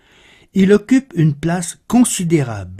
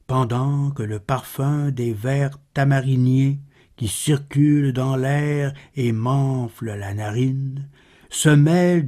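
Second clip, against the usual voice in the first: measured, understated poetry reading; solemn recital with restrained pitch; poem recitation; 2 semitones lower, 3 dB quieter than usual. Acted. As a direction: recite the verse softly, pausing between phrases. Recites second Baudelaire poem.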